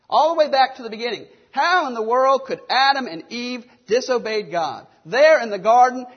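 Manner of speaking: incredulous judgement. Pretend. Preacher voicing smug Bible readers, loud incredulous scorn. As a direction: pile up the outraged questions, punching each How. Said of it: "that's exactly the way we read these accounts".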